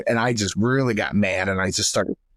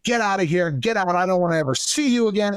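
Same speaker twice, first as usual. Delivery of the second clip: a hint of a raised, higher angry yell; dad yelling; 6 semitones higher, faster than usual. Dad orders son out of the house, mock higher-pitched yell. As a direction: throw him out of the house, fast.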